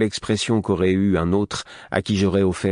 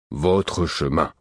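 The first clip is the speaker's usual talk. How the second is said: slow grave hermit; much slower than usual. Acted. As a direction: drag "Votre chemin" out slowly. Host repeats.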